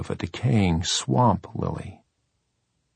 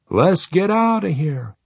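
put-on high, loud Swedish accent; urgent, in a thick Swedish accent; 10 semitones higher, 4 dB louder than usual. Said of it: "in that crazy Swedish accent of his".

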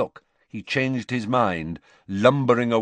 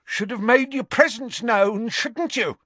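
higher, louder, hostile jab; aggressively; 13 semitones higher, 3 dB louder than usual. A narrator's reading. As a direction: push the accusation in his face. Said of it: "said Gaunt aggressively".

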